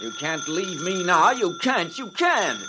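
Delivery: rising panic, begging; desperate pleading. Acted. Frightened partner begging Phil not to go, desperate. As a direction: beg him not to leave you.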